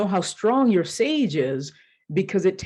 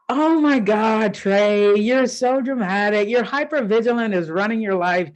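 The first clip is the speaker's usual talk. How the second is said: exasperated friend; 2 semitones higher, 3 dB louder than usual. Retold or imitated. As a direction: brush off the fuss. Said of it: "And she goes".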